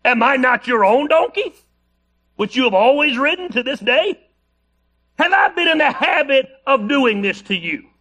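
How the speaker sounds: a touch of the hurt, puzzled donkey; mock-indignant donkey asking with a laugh. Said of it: "can't you just picture this donkey sounding just like".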